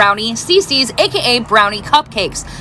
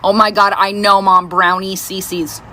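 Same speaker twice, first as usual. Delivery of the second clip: put-on eye-rolling teen; 5 semitones lower, slower than usual. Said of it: "she'll roll her eyes at me".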